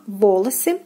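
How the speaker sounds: волосы with full first о, second as "a"; careful model волосы for learners; stress on first syllable. Shown as a demonstration. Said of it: "second unstressed and is pronounced as A".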